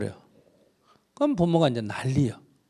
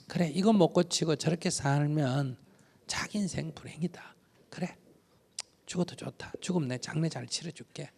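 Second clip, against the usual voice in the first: hushed inner resolve; 5 dB quieter than usual. Pretend. Inner resolve voiced to oneself.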